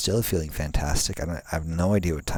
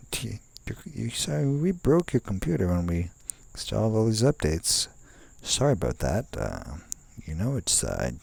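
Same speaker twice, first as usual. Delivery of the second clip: higher, breezy mock-sorry voice; mock apology from the computer; 5 semitones higher than usual. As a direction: act the careless software shrugging it off. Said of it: "It's like".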